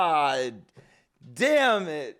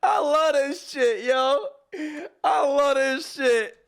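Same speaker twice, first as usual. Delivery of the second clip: laughing delight; 2 semitones higher than usual. Real, not acted.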